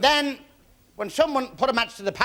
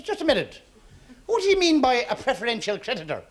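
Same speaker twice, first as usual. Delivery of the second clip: acted protest, pitched up; mildly indignant creditor querying the chairman; sudden challenge; 4 semitones higher than usual. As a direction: jump in with a higher-pitched objection.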